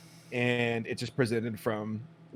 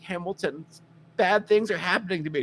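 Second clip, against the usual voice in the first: higher-pitched mock damsel; pleading girl; 5 semitones higher, 3 dB louder than usual. Girl bringing her troubles to Hamilton, mock pleading. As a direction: imitate a girl asking for rescue.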